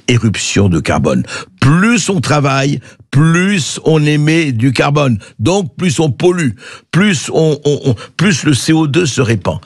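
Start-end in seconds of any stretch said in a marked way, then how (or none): 1.6-9.6 sarcastic. Acted. Mocking the quoted claim.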